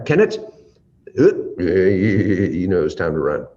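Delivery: a mother's high, loud warning call of "Kenneth". Retold or imitated. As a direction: call the child in, no nonsense. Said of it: "that tone of voice went up a little bit higher".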